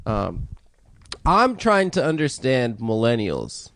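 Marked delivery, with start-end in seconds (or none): 1.3-3.7 lightly voiced slow Steve Harvey; doing Steve Harvey. For friends, a slow, lightly voiced Steve Harvey joke. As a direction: tell it slow like a host. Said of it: "I'm gonna do Steve's joke".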